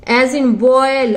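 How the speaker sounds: boil stretched very slowly, ओ gliding into ई; very slow demo. Shown as a demonstration. Teacher showing students the ओई sound, very slow. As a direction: spell out boil in slow motion. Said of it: "ये ऐसे और ये ऐसे".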